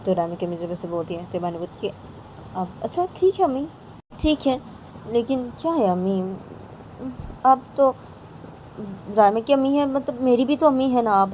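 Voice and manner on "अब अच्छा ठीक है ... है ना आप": high, appealing voice; acted pleading. Bani appealing to ammi, high acted pleading. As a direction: plead your case in a raised pitch.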